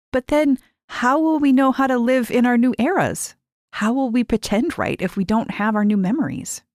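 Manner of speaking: fretting about the plan; worried young girl. A narrator's reading. Mary questioning Lise's plan, worried.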